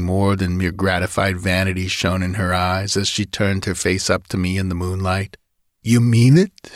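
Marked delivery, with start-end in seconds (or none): 5.8-6.7 shaky, breathless and a touch louder; quivering breathless. Acted. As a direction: ask it breathlessly, voice trembling. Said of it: "in a quivering, breathless voice".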